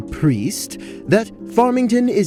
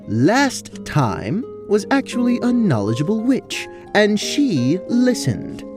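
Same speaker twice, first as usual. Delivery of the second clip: indignant correction; 8 semitones higher than usual. Acted. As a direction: correct them pointedly, pitch rising high. Character argues a correction.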